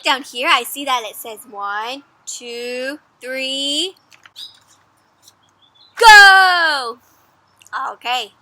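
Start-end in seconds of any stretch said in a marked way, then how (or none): 1.5-7.0 counting down the race start, yelled go; countdown to go. Acted. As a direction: count up and shout the go.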